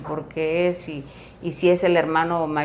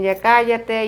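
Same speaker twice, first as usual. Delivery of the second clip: raised, higher retold shout; mock yell; 6 semitones higher, 6 dB louder, slower than usual. One sibling yelling back at another, mock shout. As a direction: imitate someone yelling back. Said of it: "empieza a gritar también".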